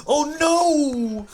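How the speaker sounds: sudden high panicked cry; panicked squeal. Real, not acted. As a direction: squeal in alarm at the screen. Panic at the game.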